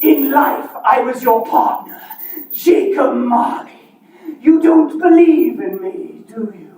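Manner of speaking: ghostly Marley voice; booming voice of a dead partner; playing both parts.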